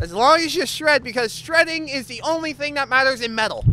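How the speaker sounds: high, loud announcer pitch; hyped slogan. Pretend. Host echoes the band's only requirement, loud proclaiming voice. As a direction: proclaim it to the metal audience.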